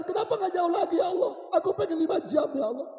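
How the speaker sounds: high, anguished wailing to God; impassioned acted lament, straining high; deep regret. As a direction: cry out each wish like a dying man. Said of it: "Dia menyesal, ayah bunda".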